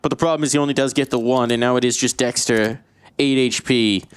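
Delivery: rising, tense esports call; live play-by-play. Acted. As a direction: build tension toward the clutch. Live casting the round.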